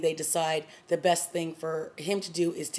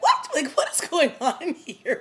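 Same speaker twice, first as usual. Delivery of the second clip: mock bewildered; 9 semitones higher, 4 dB louder, slower than usual. Imitating confused, amused reaction.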